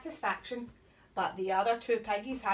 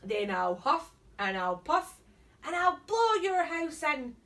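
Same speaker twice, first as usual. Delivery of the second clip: wolf shout; 3 semitones higher, 4 dB louder than usual. Acted. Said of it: "shouted the wolf".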